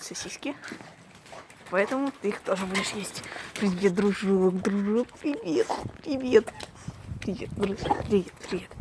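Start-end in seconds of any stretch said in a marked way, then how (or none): 3.5-8.7 squeaky praising a dog. Real, not acted. Talking to the dog.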